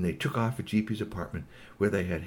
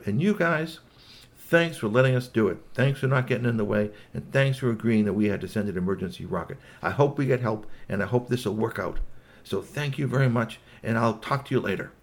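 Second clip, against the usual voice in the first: polite robot; 2 semitones higher, 4 dB louder than usual. Acted. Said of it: "a very polite Agatsuri Ninja robot".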